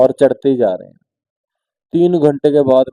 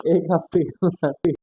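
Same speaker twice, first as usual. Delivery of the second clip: drawn out, weary; 2 semitones higher, 4 dB quieter, slower than usual. Shown as a demonstration. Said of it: "इतनी बार बोल लिया कि मैं खुद ही बोर हो गया".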